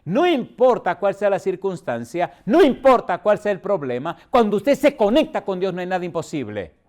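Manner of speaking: fervent pulpit proclamation; preaching emphasis. Real, not acted. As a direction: drive the promise home. Sermon climax declaration.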